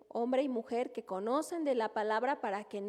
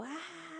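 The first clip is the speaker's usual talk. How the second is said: brusque outburst; 6 semitones higher, 10 dB quieter than usual. Retold or imitated. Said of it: "Así como".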